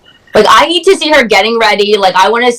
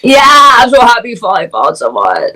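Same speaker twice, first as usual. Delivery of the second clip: failed attempt at a Kermit-like voice; badly faked froggy speech; Patrick Mahomes impression; 2 semitones higher than usual. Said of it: "I can't even do it".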